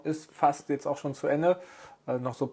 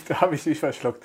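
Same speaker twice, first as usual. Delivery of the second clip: choking on beer; 4 dB louder than usual. Real, not acted. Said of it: "Da tut das Bier im Rachen weh".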